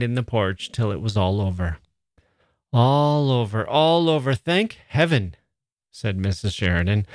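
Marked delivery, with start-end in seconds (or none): 2.7-5.3 weary relieved mother. Acted. Mrs Sheridan sighs after party.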